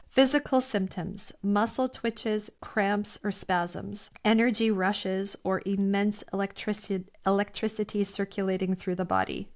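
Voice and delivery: measured list reading; slow reading. Real, not acted. Reading listeners a list of awakening symptoms, slowly. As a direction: read each item slowly and separately. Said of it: "I'm gonna read it slowly".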